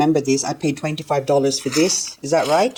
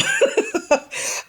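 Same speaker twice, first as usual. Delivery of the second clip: a sudden high-pitched laugh; high laugh burst. Real, not acted. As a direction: burst out laughing at her own joke. Laughing at a pun.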